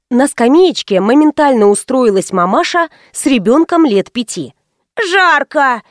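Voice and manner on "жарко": put-on higher child's whine on «Жарко!»; whiny child. Overheated child complains to mother, whining. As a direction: drag «Жарко!» out like a fussing kid. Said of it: "ныл".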